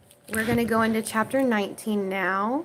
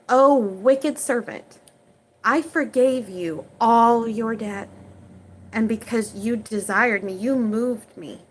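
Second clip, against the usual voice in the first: stern rebuke. Acted. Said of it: "said unto them".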